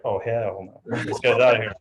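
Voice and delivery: a low, muttered inner no; lightly voiced thoughts of a fed-up client; inner refusal. Patient client thinking silently, low and dismissive. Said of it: "internally, he's gonna be like".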